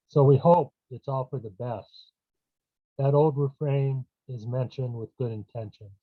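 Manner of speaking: measured poem recital, line by line; poem reading. Acted. Poet reads a poem on a brother's death, measured recital. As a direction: read it as verse, pausing after each phrase.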